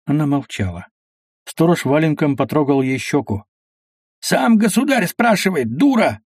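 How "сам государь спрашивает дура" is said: scolding. Acted. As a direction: snap at her to answer. Watchman scolds the silent woman.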